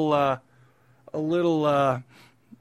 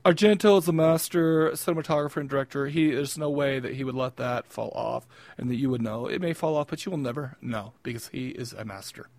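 film snob voice. Pretend. Host putting on his film snob voice about Argento, pompous. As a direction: lecture like a self-important critic. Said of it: "that's how I talk when I pull out the film snob in me".

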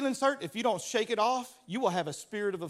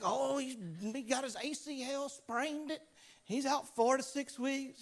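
mock injury report; 3 semitones higher, 8 dB quieter than usual. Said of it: "there's like".

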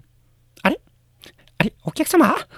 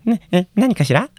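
mild nervous low-key worker voice; a hint of a jittery clerk; timid office worker; 5 semitones lower than usual. Plays a calm nervous office worker.

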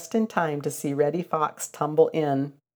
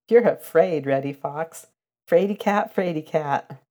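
taunting; 3 dB louder than usual. Acted. Billy Mink mocking Reddy Fox as a coward, teasing sing-song. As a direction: tease him like a cheeky kid.

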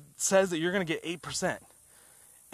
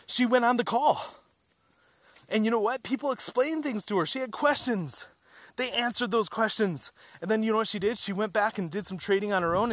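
excited; 5 semitones higher than usual. Real, not acted. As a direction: pump it up, thrilled storyteller. Excited retelling Jane's win.

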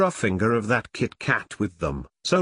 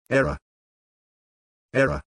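flat computer error voice; malfunctioning machine voice; glitching robot; much faster than usual. Acted. Computer voice hits paradox.

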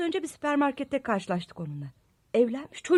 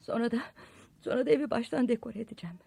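whispering; 5 semitones lower, 7 dB quieter, faster than usual. Acted. Quiet aside while upset.

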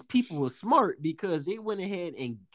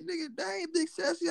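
very high, softer mock protest; incredulous protest; 13 semitones higher, 5 dB quieter than usual. Young worker correcting his catcalling coworker, incredulous. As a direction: squeak out your disbelief.

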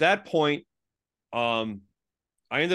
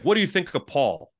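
retold exasperated question, slightly raised; mildly frustrated; 4 semitones higher, 4 dB louder than usual. Frustrated man quizzing him about Paul, mildly exasperated. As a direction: push the question with a touch of frustration. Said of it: "And he gets all frustrated".

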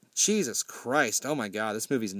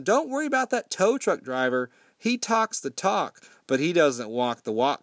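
mock lady voice; 3 semitones higher than usual. Lady reassures the prom goers.

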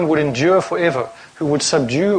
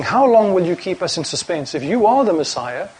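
mildly voiced impatient crowd, rising higher at the end; a hint of the crowd pressing Jesus for a straight answer; lightly acted crowd confronting Jesus; demanding crowd; 4 semitones higher than usual.

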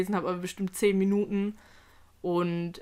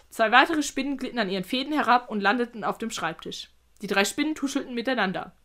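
measured read-aloud narration; careful storyteller's reading; story narration; 3 semitones higher than usual. A narrator's reading. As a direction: tell it evenly, like an audiobook.

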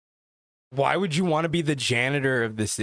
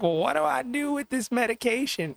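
put-on a light, higher old lady voice; 9 semitones higher than usual. Caller asking about her medication, lightly voiced old lady. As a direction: lightly play the confused caller. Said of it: "she's like".

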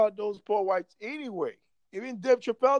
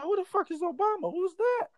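retold disbelief; 11 semitones higher than usual. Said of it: "I'm like".

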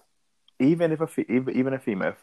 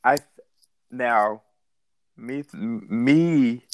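tipsy; 2 semitones higher than usual. Real, not acted. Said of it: "I'm a little drunk".

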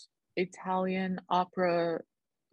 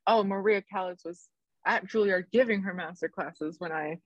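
imitating Patti. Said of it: "the Patty interview where she was like".

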